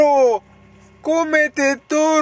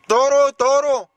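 put-on slow, high baby-talk command; mock scolding; 6 semitones higher, 3 dB louder, much slower than usual. Scolding the girl over her banana, mock scolding. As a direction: drag out each word in a high, teasing scold. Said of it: "porque yo la regaño".

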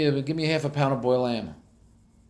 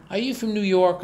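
surprised waitress; 8 semitones higher, 4 dB louder than usual. Retold or imitated. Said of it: "She went".

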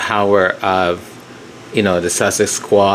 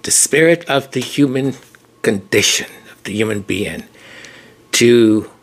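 choked up. Real, not acted. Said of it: "I'm gonna get emotional here".

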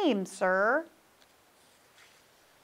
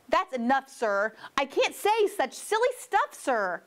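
frustrated protest; 2 semitones higher than usual. Acted. Knox protests the tongue twisters.

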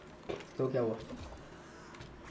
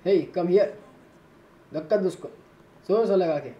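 loud, higher commands barked at his men; shouted orders; 4 semitones higher, 5 dB louder than usual. Real, not acted. Gamer shouting orders to his fighters, loud and higher. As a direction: yell to the crew to push hard.

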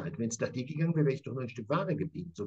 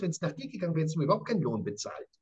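open accusation; faster than usual. Acted. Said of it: "Er spricht das offen aus".

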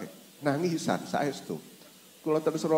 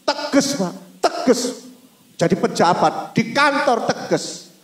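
loud, high, insistent; emphatic call; 11 semitones higher, 5 dB louder than usual. Real, not acted. Preacher urging the congregation, emphatic. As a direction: hammer the word home.

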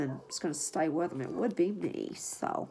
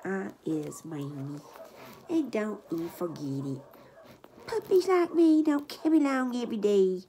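puppy voice; 2 semitones higher than usual. Pretend. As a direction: speak for the pup with attitude. Voicing the puppy's reply.

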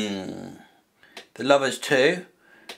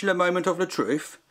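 mock French; 4 semitones higher than usual. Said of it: "Is that French?".

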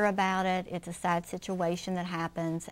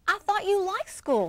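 gentle mother; 10 semitones higher than usual. Acted. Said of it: "said Missus Raccoon".

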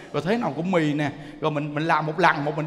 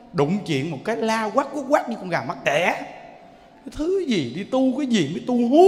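mocking gossip. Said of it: "người ta nói".

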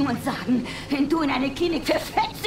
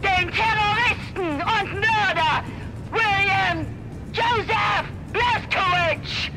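megaphone announcement; 4 semitones higher than usual. Acted. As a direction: call him out over a loudspeaker.

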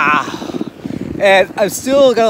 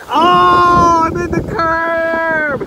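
surprised; 8 semitones higher, 5 dB louder, much slower than usual. Real, not acted. Hits the curb.

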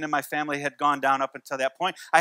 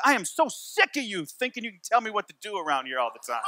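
lightly voiced sassy little girl, laughing through it; hands-on-hips huff at dad; indignant toddler; 4 dB quieter than usual. Daughter telling off her dad, mock-indignant with a laugh. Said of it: "put her hands on her hips and says".

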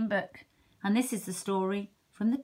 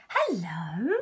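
whisper; 2 semitones lower than usual. Acted. Shy hedgehog greets fox.

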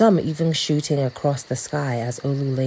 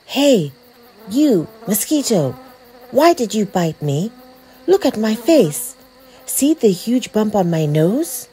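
put-on high, accusing kid voice; put-out child demanding answers; indignant boy; 6 semitones higher, 3 dB louder than usual. A narrator's reading. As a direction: confront the culprit, pitched up. Boy confronts the mosquito.

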